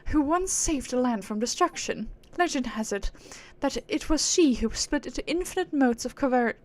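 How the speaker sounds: lofty aristocratic British; British accent. Acted. Proud being musing on humans, lofty British accent. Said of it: "give her a British accent".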